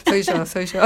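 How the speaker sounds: laughing while repeating it. Real, not acted. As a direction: giggle the words out.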